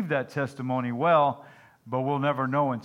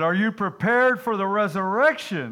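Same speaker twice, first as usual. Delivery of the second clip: louder, higher, exasperated demand; frustrated preacher; 8 semitones higher, 7 dB louder than usual. Acted. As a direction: push the question out in frustration. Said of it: "the frustrated preacher said".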